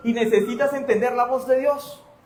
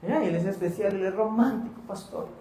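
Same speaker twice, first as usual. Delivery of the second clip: mock swooning girl. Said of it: "Y la persona".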